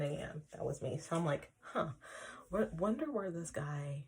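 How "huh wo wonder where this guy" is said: breathy whisper to herself, barely voiced; a private aside whispered in puzzled wonder; whispered thought. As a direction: mutter the thought under your breath. Wondering to herself after mass.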